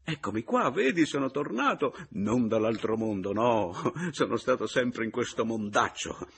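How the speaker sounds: high, loud and eager; excited reunion. Acted. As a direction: insist joyfully that you are really back. Reunion with brother believing him dead.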